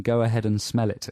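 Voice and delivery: light South African accent. Shown as a demonstration. Host decodes the phrase, South African accent. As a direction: say "Go ahead and smell it" as a South African. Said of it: "in a South African accent".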